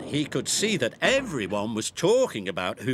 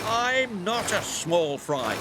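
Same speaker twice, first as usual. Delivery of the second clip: crossly; 6 semitones higher than usual. A narrator's reading. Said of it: "said Alfie crossly".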